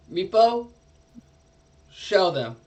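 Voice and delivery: a light voicing of the dragon commanding; dragon's command. Dragon ordering Meepo to guide the party, a light command. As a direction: call the kobold forward. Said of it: "And she goes".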